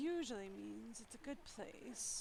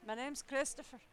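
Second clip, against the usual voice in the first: a hint of a faltering Australian accent; Australian accent attempt; 3 semitones higher, 5 dB louder than usual. Player voicing the stranger in a weak Australian accent. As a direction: try an Australian accent and half miss it. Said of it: "Oh, I cannot do Australian".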